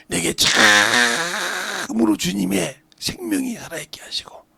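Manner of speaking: hushed plea to God with swells; leading the congregation in fervent prayer; earnest prayer. Real, not acted. Leads a model prayer.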